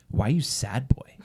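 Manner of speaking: playful mock-concerned question; retold teasing line, lightly joking; joking tease. Wife teases sad husband to lighten the mood, joking. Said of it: "funny, joking".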